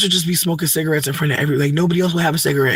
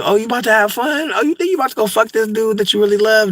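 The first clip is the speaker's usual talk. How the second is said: mock disapproving queen; 6 semitones higher than usual. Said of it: "and be like".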